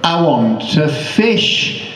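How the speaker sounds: put-on slow, stern old lady. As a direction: lay each word down slowly and sternly. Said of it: "looked stern, not pleasant".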